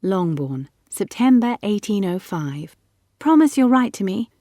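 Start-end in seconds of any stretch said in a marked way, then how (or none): 3.2-4.3 put-on high, urgent girl's plea; louder, higher entreaty; pleading. A narrator's reading. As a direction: plead with a departing friend. Girl pleads at a parting.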